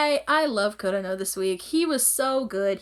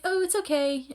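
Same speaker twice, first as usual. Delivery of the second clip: gentle reassurance; 8 semitones higher than usual. Retold or imitated. Retold comforting after a bad dream.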